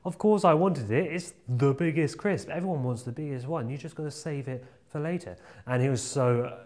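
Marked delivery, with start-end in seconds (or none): 0.0-5.4 mock angry. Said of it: "I was so angry".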